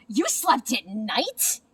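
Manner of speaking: slow, amazed gasp. Acted. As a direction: gasp it out in shock. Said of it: "gasped another".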